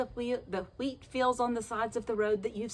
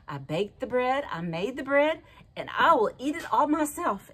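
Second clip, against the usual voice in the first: triumphant hen; 3 semitones higher, 4 dB louder than usual. Acted. Hen triumphantly refuses sharing.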